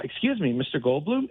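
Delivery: mild, measured polite question; calm. Retold or imitated. Fan politely approaching a star in the street, calm. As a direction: ask it calmly, without any fuss. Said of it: "just really calmly said".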